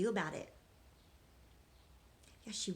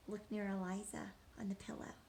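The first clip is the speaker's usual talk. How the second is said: whispered aside; 7 dB quieter, faster than usual. Real, not acted. Teacher hushing children to look at the picture, whispering. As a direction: whisper it, they're reading.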